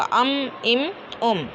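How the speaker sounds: अम, इम, उम with dry outer lips pressed shut; letter meem demonstrated. Shown as a demonstration. Teacher showing students where meem comes from, careful demonstration. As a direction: hum the m at the end of अम, इम, उम. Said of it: "खुश्क हिस्से से मीम अदा होगा".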